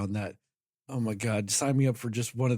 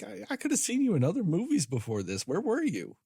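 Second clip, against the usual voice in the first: higher-pitched, exasperated complaint; mock mad; 6 semitones higher than usual. Co-host imagining scolding a newly discovered actor, mock mad. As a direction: playfully scold him for his absence. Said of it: "you get mad at him".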